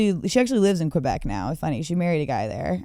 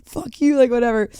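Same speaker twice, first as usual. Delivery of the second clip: high-pitched mock defiance; imitating an angry outburst; retold screaming; 5 semitones higher, 4 dB louder than usual. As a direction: snap it at an official, half in jest. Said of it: "screaming at the customs guy".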